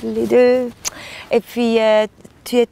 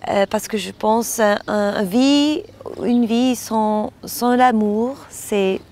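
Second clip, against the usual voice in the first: foreign accent in French. Real, not acted. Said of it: "pardon, mon français".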